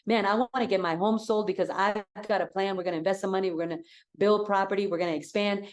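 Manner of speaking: quick, run-on client chatter; mildly hyped, hurried home seller; high-energy client. Acted. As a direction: rattle off the plans without stopping. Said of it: "if they're high energy".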